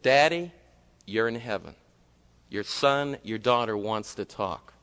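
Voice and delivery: gentle worshipful prayer voice. Acted. Pastor leads closing prayer.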